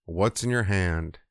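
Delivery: low, understated exasperation; mildly frustrated. Retold or imitated. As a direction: imitate a God running out of patience. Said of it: "God is just frustrated with Moses".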